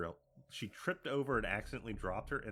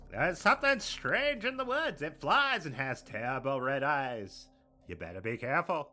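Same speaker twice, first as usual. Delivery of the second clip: high spooky warning voice; 4 semitones higher, 6 dB louder than usual. Pretend. Voicing Mothman warning kids.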